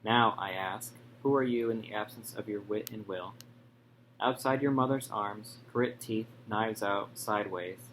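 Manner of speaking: measured poetry reading, falling away at each line's end; poem recitation. Real, not acted. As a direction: read your sonnet aloud in short, paused phrases. Reads own sonnet aloud.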